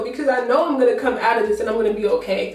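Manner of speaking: strangled, tearful voice; choked up. Real, not acted. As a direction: voice tight with tears. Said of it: "Sorry if I sound choked up".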